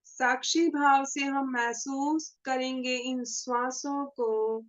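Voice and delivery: measured meditation guide with long pauses; guided meditation. Acted. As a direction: lead the group gently into meditation, pausing between phrases. (ध्यान कराने वाली ठहरी हुई आवाज़)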